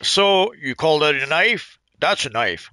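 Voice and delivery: attempted Australian accent, slow on the challenge; lightly done, unconvincing Australian accent; Crocodile Dundee. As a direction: have a go at an Aussie movie-hero accent. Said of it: "sound like a Crocodile Dundee".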